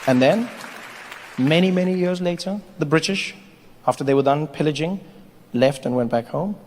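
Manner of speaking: slow, measured storyteller with long pauses; mock-historical narration. Comedian recounting history after colonisation, solemn narration.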